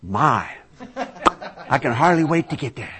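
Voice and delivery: imitating an old preacher chuckling with delight; laughing old man. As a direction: laugh through the words like a hungry old man. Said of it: "That's what Doctor Pentecost says".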